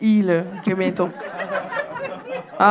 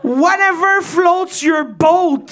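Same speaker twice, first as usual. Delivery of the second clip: English phrase; 7 semitones higher, much slower than usual. Acted. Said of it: "comme disent les Anglais".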